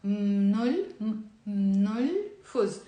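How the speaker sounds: Mnol said with M and N blended at the start, then fuz; slow syllable drill of mnol then fuz; M and N together. Shown as a demonstration. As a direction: press the M straight into the N in mnol. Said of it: "M and N together".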